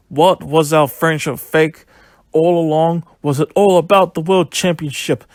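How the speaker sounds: mildly heated, indignant retelling; hurt accusation. Retold or imitated. Wrestler confronts his friend after the match, imitated indignation. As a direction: imitate a betrayed friend demanding answers. Acting out wrestler's betrayed outburst.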